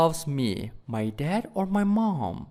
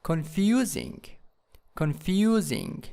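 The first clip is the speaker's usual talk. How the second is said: "confusing" stressed on FU; stress on second syllable. Shown as a demonstration. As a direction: lift the FU of "confusing", then fall. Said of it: "in the second syllable".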